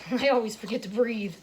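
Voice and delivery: real laugh bubbling into the words; amused laughing. Real, not acted. Admitting a gym habit to viewers, laughing. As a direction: chuckle through the admission.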